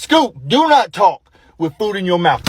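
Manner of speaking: slow, spaced-out parental order; dad laying down the rule; stern correction. Retold or imitated. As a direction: scold slowly, hitting each word. Correcting child chewing.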